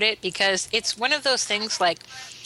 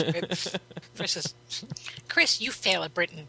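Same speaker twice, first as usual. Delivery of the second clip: mock whisper; 4 dB quieter than usual. Mock verdict on Chris.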